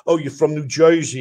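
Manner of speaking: mock New York-style Jersey accent; imitating outsiders' idea of a Jersey accent; stereotyped Jersey accent. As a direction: put on a brief cartoon New Jersey accent. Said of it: "I don't talk like that".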